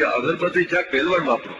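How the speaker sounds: "અગરબત્તી છાપ પહેલવાન વાપરો" read with a laugh as the wrong board; painter's mistake read out. Shown as a demonstration. Comedian reading the painter's botched board, laughing. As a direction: deliver the swapped words as the laughing punchline. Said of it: "પેઇન્ટરે ભૂલ કરી ગયો છે".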